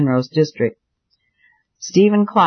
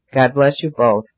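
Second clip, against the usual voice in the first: gentle blessing. A narrator's reading. Bishop blessing the young couple, gently. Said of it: "said gently".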